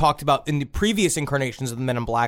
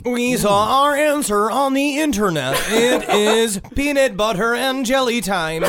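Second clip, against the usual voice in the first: slow, higher sing-song voice; sing-song alien voice; 6 semitones higher, slower than usual. Retold or imitated. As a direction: play an eerie visitor, lilting and slow. Alien men answer, playful quote.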